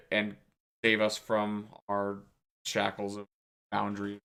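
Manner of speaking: lightly voiced cult chant, low; halting, low recital of a cult prayer; cult speech. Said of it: "it's complete cult speech".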